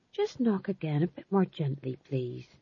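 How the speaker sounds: soft, restrained instruction, dropping away; gentle request. A narrator's reading. King asking his sergeant to knock gently, softly. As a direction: ask softly, letting the voice sink.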